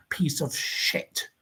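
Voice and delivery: hissed in a whisper; whispered insult. Acted. Caller insulting a singer in a whisper. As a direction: spit the insult under your breath.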